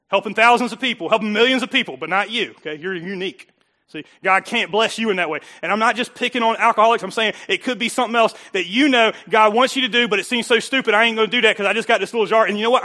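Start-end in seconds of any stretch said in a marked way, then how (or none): 4.2-12.8 loud, insistent pulpit delivery; forceful preaching. Real, not acted. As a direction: push the challenge at the listeners.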